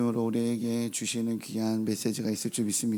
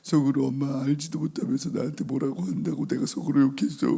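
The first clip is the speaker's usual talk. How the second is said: lightly voiced tearful child; child crying confession; 3 semitones higher than usual. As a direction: mimic a small boy confessing through tears. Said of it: "막 울면서 얘기하는 거죠".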